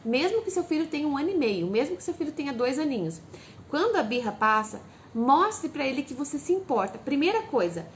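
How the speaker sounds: ordinary talk, nothing marked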